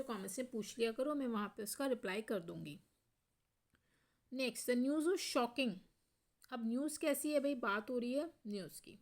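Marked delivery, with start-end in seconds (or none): 4.7-5.7 very slow, each word spaced out; slow dictation. Shown as a demonstration. Teacher reading the example sentence aloud to students, very slow. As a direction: spell it out for the class.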